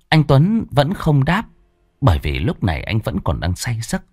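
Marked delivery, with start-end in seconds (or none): none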